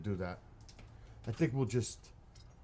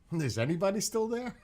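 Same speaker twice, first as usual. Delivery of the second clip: high, loud laughing call; 12 semitones higher, 9 dB louder than usual. Real, not acted. Calling, laughing.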